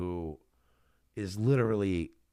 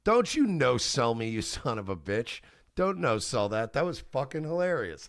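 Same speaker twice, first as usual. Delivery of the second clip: louder, playful mock scolding of a friend; getting louder, teasing; 3 semitones higher than usual. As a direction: egg your buddy on, half shouting. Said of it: "I start getting louder".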